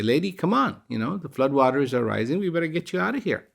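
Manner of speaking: lightly voiced rescuer hurrying the lady along; urgent rescuer call.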